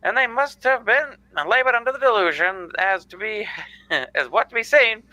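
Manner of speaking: put-on old-time radio narrator voice; 1940s radio announcer. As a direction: read it like a vintage newsreel. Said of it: "I am doing the nineteen forties radio guy".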